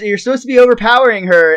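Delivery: imitating an impatient director; retold director's yell. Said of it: "the director's yelling at".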